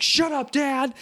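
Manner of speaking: high, whiny "shut up dad"; whiny son. Retold or imitated. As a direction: snap back like a sulky teenager. Son snapping at ghost father.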